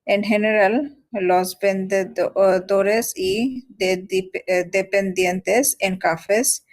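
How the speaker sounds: slow, careful learner's reading; halting reading aloud. Real, not acted. Learner reading Spanish text to tutor, slow halting reading. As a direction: read word by word, with stumbles and restarts.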